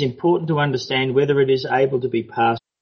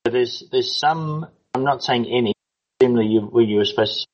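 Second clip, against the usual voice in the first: breaking up over a bad line; choppy connection. Real, not acted. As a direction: voice cutting in and out. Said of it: "you're still very choppy".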